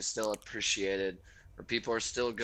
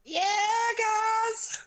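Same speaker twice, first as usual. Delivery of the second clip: mock announcer. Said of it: "intermission announcement".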